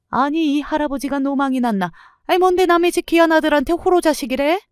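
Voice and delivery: mother-in-law shrieking at the grandfather in outrage; indignant mother-in-law. Acted. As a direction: shriek back at the old man in disbelief. Mother-in-law quarrels with old man.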